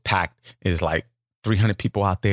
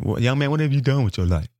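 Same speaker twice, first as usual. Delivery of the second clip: lightly voiced stern judge. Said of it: "what the judge was saying".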